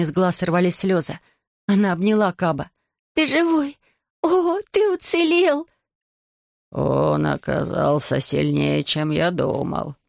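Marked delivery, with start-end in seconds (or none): 3.1-5.7 put-on very high, joyful girl's cry; overjoyed girl. Girl overjoyed her dragon survived, very high. 6.7-10.0 low, very slow dragon voice; grudging dragon. Acted. Dragon Ryuji admitting the young one's strength, low and slow.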